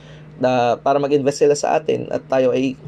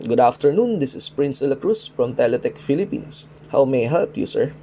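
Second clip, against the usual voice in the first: put-on American English accent. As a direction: call center agent's American-accented English greeting. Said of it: "American English accent, kasi alam ko".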